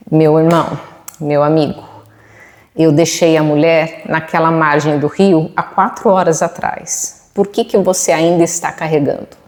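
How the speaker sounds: mildly serene, measured retold reply; understated calm, leaving space between phrases; utter serenity. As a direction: speak as an unruffled older monk, with pauses. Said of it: "com toda a serenidade do mundo".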